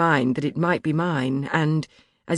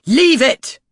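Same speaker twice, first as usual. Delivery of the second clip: loud, high command like to a dog; firm grandmother's voice; 10 semitones higher, 9 dB louder than usual. A narrator's reading. Narrator commanding Crompton, firm grandmother voice. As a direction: order him as grandmother would. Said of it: "said firmly, in my grandmother's voice".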